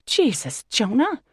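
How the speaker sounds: yelp. Acted. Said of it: "I yelp".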